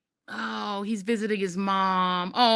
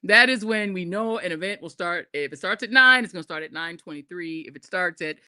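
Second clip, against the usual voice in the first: mock formal motion. Mock committee motion speech.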